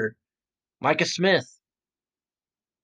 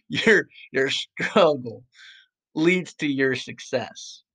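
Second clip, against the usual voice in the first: cinematic; slower than usual. Shown as a demonstration. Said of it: "trying to be all, like, cinematic there".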